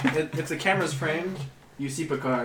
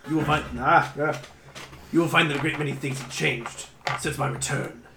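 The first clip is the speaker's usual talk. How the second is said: ominous hooded stranger. Acted. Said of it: "Valdor says".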